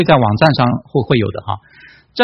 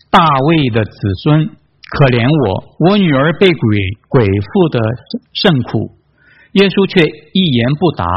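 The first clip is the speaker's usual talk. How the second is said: measured, spaced-out Bible reading; scripture reading; slower than usual. A narrator's reading. Preacher reading the Canaanite woman's story to congregation, measured reading. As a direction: read the passage out deliberately, pausing between phrases.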